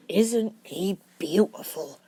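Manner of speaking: slow, doting murmur. A narrator's reading. Hagrid admiring the newborn dragon, doting murmur. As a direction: croon it over the baby dragon. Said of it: "Hagrid murmured".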